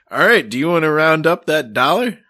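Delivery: a hint of cheery sales prompt; perky checkout prompt. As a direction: pitch it up like an eager cashier. Acting out the checkout app's prompt.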